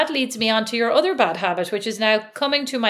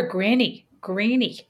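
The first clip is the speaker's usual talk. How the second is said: American accent; slower than usual. Shown as a demonstration. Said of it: "'cause they have an American accent".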